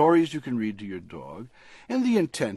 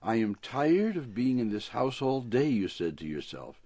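lively picture-book read-aloud; storybook reading. A narrator's reading. Author reading his dog story on the radio, storybook voice. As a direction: read it like a bedtime story for a pet.

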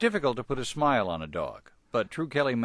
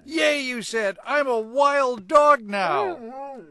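excited cheer; 7 dB louder, much slower than usual. Acted. Dog cheers in story.

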